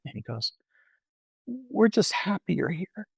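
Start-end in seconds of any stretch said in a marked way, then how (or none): 1.5-3.1 gentle welcome. Retold or imitated. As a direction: retell the young man's welcome gently. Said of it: "the way he said that to me".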